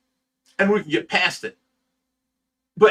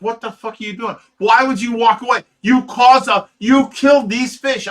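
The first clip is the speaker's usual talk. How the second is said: raised, higher-pitched angry scolding; retold yelling; 4 semitones higher, 5 dB louder than usual. Rescuer confronting helper over the dead fish, retold yelling. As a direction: confront him, building louder and higher as you retell it. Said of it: "I'm yelling at him".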